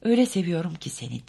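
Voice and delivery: plain reading voice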